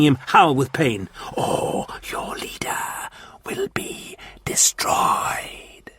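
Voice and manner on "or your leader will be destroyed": slow, hissed, menacing whisper; whispering Martian warlord. Acted. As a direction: breathe the demand like a cold threat. Martian threat.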